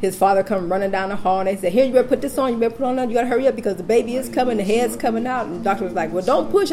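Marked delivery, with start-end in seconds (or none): 1.7-5.4 higher, hurried instructions; imitated urgency. Staff hurrying father into delivery, imitated urgency. 6.1-6.7 high-pitched quick warning; imitated urgent doctor. Doctor warning her as baby comes, imitated high and urgent.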